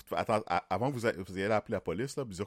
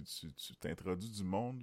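ordinary talk, nothing marked

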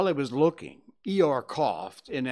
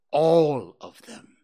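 sulky; 2 semitones higher, 9 dB louder, slower than usual. Acted. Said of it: "said Owl sulkily".

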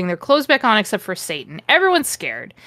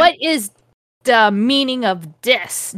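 mock angry; 2 semitones higher than usual. Dumbledore confronts Voldemort in a fanfic, mock angry. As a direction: demand it with hammed-up anger. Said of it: "Dumbledore said all angrily".

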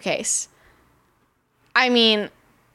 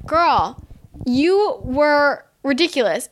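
drawn-out, exasperated put-down; mock rebuke; 3 semitones higher, slower than usual. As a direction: stretch each word slowly, telling her off. Acted blunt rebuke to Ramona.

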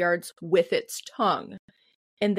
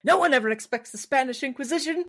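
Monty Python quote; 5 semitones higher, faster than usual. Retold or imitated. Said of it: "Monty Python nerd".

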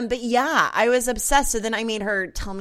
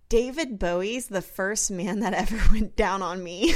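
laughing; 3 dB louder than usual. Retold or imitated. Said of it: "And she goes".

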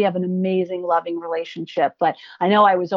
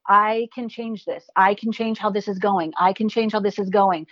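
self-affirmation. Retold or imitated. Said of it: "I will say out loud".

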